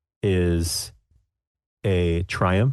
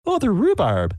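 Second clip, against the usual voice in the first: high, chatty granny; lightly voiced old lady; 5 semitones higher than usual. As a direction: coax recipes out of her sweetly. Sue asking about recipes.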